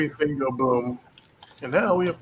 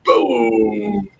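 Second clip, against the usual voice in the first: louder, triumphant boom; excited boom; 6 semitones higher, 5 dB louder than usual. Real, not acted. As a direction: cheer as it blows up. Explosion goes off.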